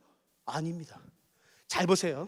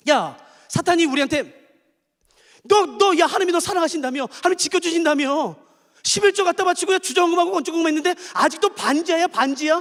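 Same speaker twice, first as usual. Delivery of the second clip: a jeering tempter's sneer; mock the believer's tithing; taunting Satan; 4 semitones higher than usual. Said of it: "이렇게 말씀해, 이렇게". (사탄의 조롱하는 말투)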